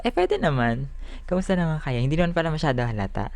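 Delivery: speaking through a tooth gap; missing front teeth. Real, not acted. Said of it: "may bungal ako".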